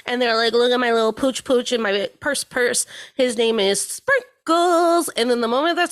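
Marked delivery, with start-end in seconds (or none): 0.5-5.1 mock doting Karen voice; Karen impression. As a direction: coo over the pooch like an entitled lady. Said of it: "named Karen and are white ladies".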